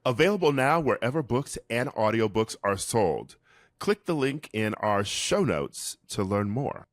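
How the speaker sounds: measured sponsor sign-off; ad read. Real, not acted. Host telling listeners where to buy the book, polished ad read. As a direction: read it out as a podcast promo.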